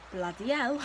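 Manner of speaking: mock British exclamation; playful put-on British accent. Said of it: "speaking like a British".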